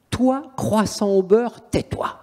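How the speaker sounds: very slow mocking taunt, ending in a whisper; demon's taunt. Demon taunting the priest, very slow then whispered. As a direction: drag it out, then breathe the tais-toi. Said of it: "il fait au prêtre".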